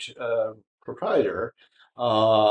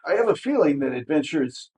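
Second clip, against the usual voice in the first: lightly voiced smarmy man, pitched up and put out; a hint of wounded vanity; taken aback; 4 semitones higher than usual. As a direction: braggart miffed that nobody knows him. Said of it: "He seems taken aback".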